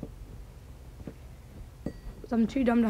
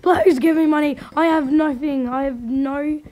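mock begging; 4 dB louder than usual. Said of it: "I just go like".

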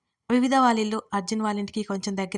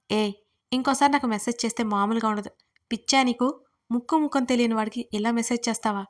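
yelling angrily. Acted. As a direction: snap at the stranger on the phone. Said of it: "అని గయ్యమన్నాడు".

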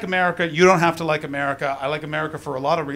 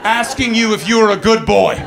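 pet talk voice; 4 semitones higher, 7 dB louder than usual. Retold or imitated. Flatmate petting you like pet.

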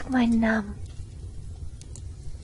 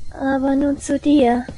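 slow, louder, menacing; ominous turn; 4 semitones higher, 7 dB louder, slower than usual. Acted. Girl turns her attention to the listener, slow and ominous. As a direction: turn to him slowly with menace.

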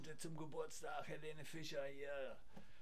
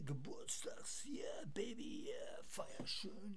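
frat bro; 5 semitones higher than usual. Acted. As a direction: whisper it like a cool party guy. Party-style whispered greeting.

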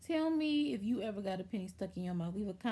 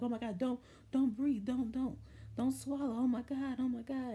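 higher, halting panicky repeats; retold freak-out; 4 semitones higher than usual. Mom warning her child not to swallow, imitated panic. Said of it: "they're freaking out".

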